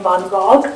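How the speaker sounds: "Van Gogh" said the Russian way, ending in a hard G or K; Russian pronunciation. Shown as a demonstration. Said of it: "my pronunciation is in Russian".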